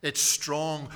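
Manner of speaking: usual speaking voice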